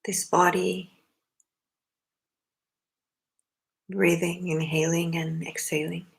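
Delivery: unhurried meditation guidance in short phrases with long pauses; spacious, measured meditation leader's delivery; guided meditation. Acted. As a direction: guide them gently into the breath, leaving long silences.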